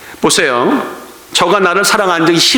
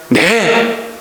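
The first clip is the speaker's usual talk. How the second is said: mock casual promise; much slower than usual. Disciples promise to pray.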